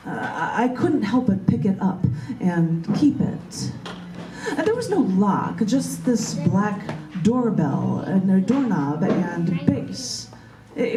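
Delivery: slow, measured poetry reading; poem reading. Acted. Poet reading her own poem to the group, slow and measured. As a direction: let each image land with pauses.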